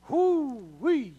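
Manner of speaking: high, loud hoo-wee; high-pitched celebratory holler; excited whoop. Real, not acted. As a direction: whoop it up for the segment. Excited cheer for the segment.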